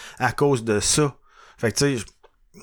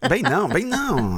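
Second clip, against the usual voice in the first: laughing; 8 semitones higher, slower than usual. Real, not acted. Laughing protest.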